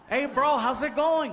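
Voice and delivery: drawn-out lazy Mexican bro; mock Mexican drag. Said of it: "we drag it out".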